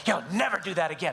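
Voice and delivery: low, stern warning, not shouted; scary dad voice. Retold or imitated. Child imitates dad's warning to him, low scary voice. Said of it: "It's just scary voice".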